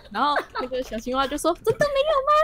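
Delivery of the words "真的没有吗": doubtful frog. Acted.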